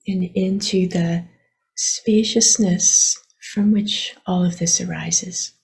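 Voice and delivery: unhurried meditation guidance with long pauses; guided meditation. Acted. Teacher guiding listeners to relax their attention, unhurried meditation voice. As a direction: gently lead them inward, leaving long silences.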